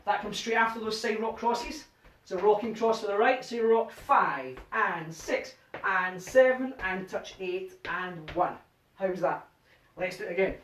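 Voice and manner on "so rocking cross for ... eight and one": slow rhythmic count calling; dance count calling. Shown as a demonstration. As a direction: call the steps to the beat.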